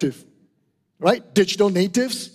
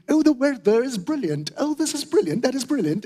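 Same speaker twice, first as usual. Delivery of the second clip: light British accent, pitched up a little; mildly put-on British accent, lilting higher; 4 semitones higher than usual. Shown as a demonstration. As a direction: play at sounding British. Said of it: "at times we'll do a British accent".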